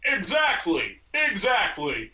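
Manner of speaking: slow mocking echo. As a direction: parrot him back mockingly. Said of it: "I'm mocking you".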